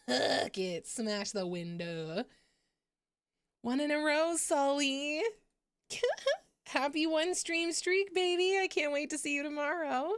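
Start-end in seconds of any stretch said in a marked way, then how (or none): 3.6-10.1 excited. Real, not acted. Excited thanks to viewer.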